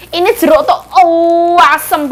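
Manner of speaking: puckered reaction to sour orange; wincing at the sour taste; sour face. Real, not acted.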